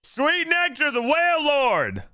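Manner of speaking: over-the-top fake joy; mock rapture. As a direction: cry out in hammed-up ecstasy. Mock rapture over disappointing reward.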